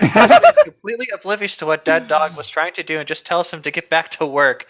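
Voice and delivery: reading through real laughter at the absurd plot; laughing while reading. Real, not acted.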